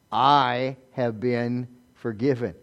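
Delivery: quiet, weighty sincerity; solemn realization. Shown as a demonstration. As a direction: let each word land slowly. Models remembering one's own forgiveness.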